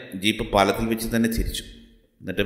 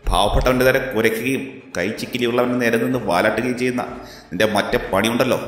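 defiant anger; 3 semitones higher than usual. Acted. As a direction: lay into the corrupt officer without backing down. Hero confronts abusive police officer. (ഉയർന്ന സ്വരത്തിൽ രോഷത്തോടെയുള്ള വെല്ലുവിളി)

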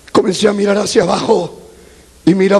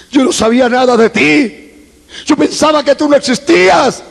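higher-pitched, rising plea to God; pleading confession; 6 semitones higher than usual. Retold or imitated. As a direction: confess urgently, climbing in pitch. Se excusa ante Dios. (confesión suplicante, cada vez más aguda)

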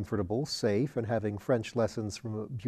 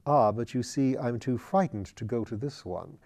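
gently. Acted. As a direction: say it gently, almost apologetic. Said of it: "and said gently".

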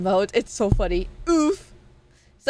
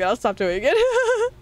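I'll stop doing it drawn out higher and slower; higher, slower take; 6 semitones higher, slower than usual. Acted. Streamer teasing chat she'll stop the bit, high and slow. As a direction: stretch it out high in mock promise.

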